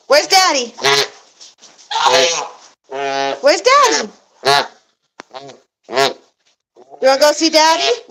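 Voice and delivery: high, bright-eyed sing-song for a pet bird. Real, not acted. To her parrot about seeing Daddy, high excited pet voice. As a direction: lift the pitch way up, teasing the bird.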